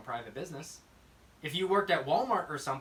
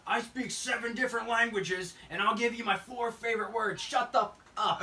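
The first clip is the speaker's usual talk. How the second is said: higher-pitched, hammed-up indignation; mock angry comeback; 6 semitones higher, 4 dB louder than usual. Older Italian man telling a customer off, mock angry. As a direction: build to an emphatic put-down, imitating the man.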